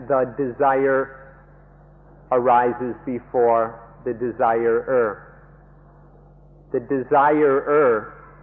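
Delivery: slow, deliberate stress on desire and desirer; measured, emphatic teaching point; emphatic key statement. Real, not acted. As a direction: spell out the order slowly, pausing between phrases. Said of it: "stress as emphatically as we can".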